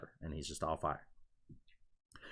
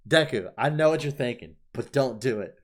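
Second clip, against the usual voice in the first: restrained plea, a little raised; pleading; 4 semitones higher, 5 dB louder than usual. Retold or imitated. Fan talking to Deku mid-fight, restrained pleading. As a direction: gently beg him to stop.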